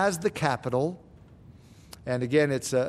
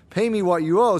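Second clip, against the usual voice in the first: demanding debt collector; 4 semitones higher, 5 dB louder than usual. Acted. Servant seizes debtor by throat.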